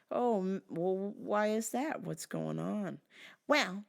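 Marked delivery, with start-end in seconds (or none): 3.5-3.8 higher, whiny pain complaint; complaining wife. Retold or imitated. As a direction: moan about the hip like the widow. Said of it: "she's just going on and on".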